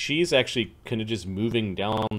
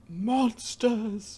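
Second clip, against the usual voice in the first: put-on character voice crying out, pitched higher; 11 semitones higher than usual. Voicing a druid who calls out to the party in Imperial Common: in-character cry. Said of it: "she says in Imperial Common".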